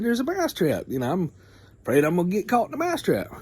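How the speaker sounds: high squeaky mouse voice, fast and anxious; a tiny mouse blurting out his fear; scared little mouse. Retold or imitated. Mouse confessing fear to pig, high squeak.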